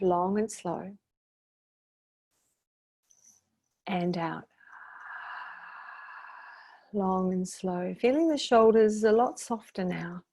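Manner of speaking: calm, measured meditation guidance with long pauses; guided meditation. Shown as a demonstration. Meditation leader helping listeners release their shoulders, calm guided meditation. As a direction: leave room for each breath, easing off at the ends.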